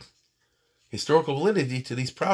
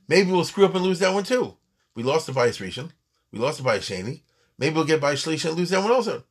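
raised, insistent worrying; worried doubter; 5 semitones higher than usual. Acted. People doubting the prophet's promise, worried doubter. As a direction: voice a doubter, pitch and volume jumping up.

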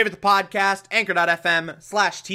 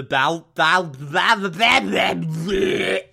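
stammering; 3 semitones higher, much slower than usual. Acted. Stuttering over the name.

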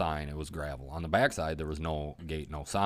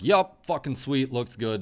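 retold excitement; 9 semitones higher, 8 dB louder than usual.

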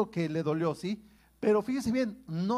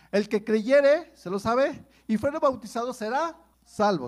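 loud, slowed proclamation of the verse; preacher booming out a Bible verse; emphatic scripture quote; 3 semitones higher, 6 dB louder than usual. Acted. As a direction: proclaim it to the congregation. Preacher quoting scripture with force.

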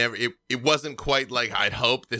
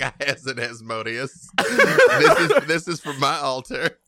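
brutal cultist voice; 3 semitones higher, 6 dB louder than usual. Pretend. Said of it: "you're just like".

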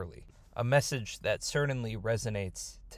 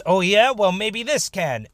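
louder, higher fighting comeback; defiant retort; 6 semitones higher, 8 dB louder than usual. Acted. Mysterious man about to wrestle Yaakov, defiant. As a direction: throw the challenge back at him forcefully.

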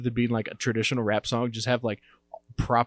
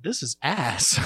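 laughing verdict; 4 semitones higher, much slower than usual. Retold or imitated. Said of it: "and I went".

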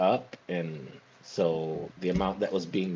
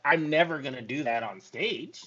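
higher-pitched, insistent declaration; emphatic vow; 5 semitones higher than usual. Real, not acted. Emphatic vow, then repeated.

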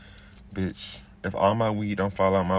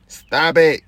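loud, sharp shout of stop it; 6 semitones higher, 10 dB louder than usual. Real, not acted. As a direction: yell it at them, fed up. Ranting at women listeners.

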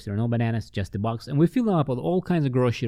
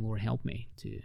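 much softer, praying under his breath; quiet inner prayer; 6 dB quieter than usual. Retold or imitated. He prays silently for the right answer to the lady, hushed. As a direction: pray it inwardly, barely aloud.

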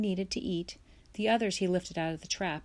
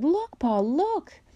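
high, loud excited squeal; squealing shout; 10 semitones higher, 7 dB louder, slower than usual. A narrator's reading. Little girl squealing to Pa about a fish, high and loud. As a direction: shriek it out at the sight of the fish. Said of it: "Laura squealed and shouted".

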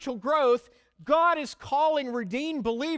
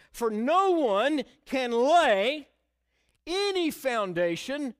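slow, measured reading of the verse; slow scripture reading; 3 semitones higher, slower than usual. Acted. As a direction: lay out "For no one can lay any foundation" slowly, word by word. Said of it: "go to verse eleven first".

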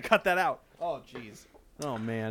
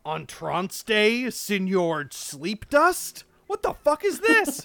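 mocking misreading; 5 semitones higher, slower than usual.

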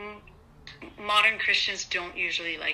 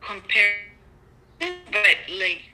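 corrupted glitchy audio. Real, not acted. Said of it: "Rochelle, you're cutting out".

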